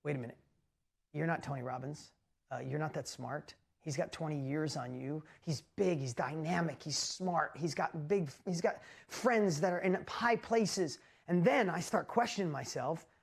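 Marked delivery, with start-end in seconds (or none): 0.1-11.0 the nagging voice of self-doubt talking you down; inner critic voice. Retold or imitated. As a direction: lower and softer, doubting murmur. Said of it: "that voice was like".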